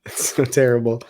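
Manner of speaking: hushed whispered aside; whispering. Real, not acted. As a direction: breathe it out in a whisper. Whispered aside after Armenian joke.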